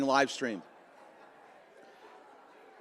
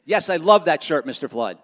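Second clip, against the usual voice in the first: the line given with real conviction and a bit more push; really mean it; 3 semitones lower than usual. Shown as a demonstration. Speaker shows Lucy how to say it sincerely, meaning it. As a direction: sell it like you truly love the shirt. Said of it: "like, you really mean it".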